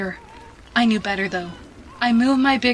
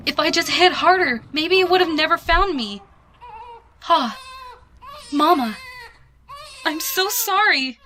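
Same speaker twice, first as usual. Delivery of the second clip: tearful filly; 9 semitones higher than usual. A narrator's reading. Terrified filly crying to parents.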